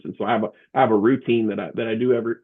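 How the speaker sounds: talking through hiccups; words broken by a hiccup. Real, not acted. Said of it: "excuse me, I got the hiccups".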